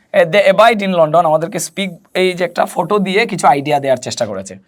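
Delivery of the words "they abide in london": slow model reading. Shown as a demonstration. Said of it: "এখানে আমরা দেখতে পাচ্ছি অ্যাবাইড".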